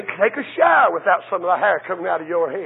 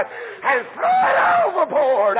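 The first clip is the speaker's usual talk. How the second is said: higher, cracking cry; preaching cry; 5 semitones higher than usual. Real, not acted. Preacher to his church, crying out. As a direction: throw it out with a sob in the voice.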